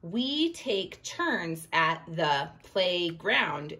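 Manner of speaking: slow, evenly spaced words; word-by-word demo. Shown as a demonstration. Teacher showing how each spoken word gets one point, slow. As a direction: tap out each word as you say it. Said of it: "And if I went".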